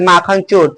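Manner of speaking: माखन leading into a weighted चोर; stress on चोर. Shown as a demonstration. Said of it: "चोर पर बल लगाए हैं". (चोर पर बल)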